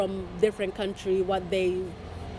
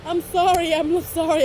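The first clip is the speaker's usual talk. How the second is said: imitating apology; 6 semitones higher, 5 dB louder than usual. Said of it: "She's like".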